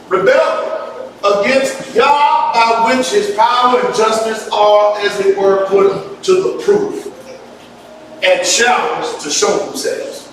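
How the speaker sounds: slow, deliberate reading; reading aloud. Acted. Preacher reading a definition to the congregation, slow and deliberate. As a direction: spell out the definition slowly, phrase by phrase.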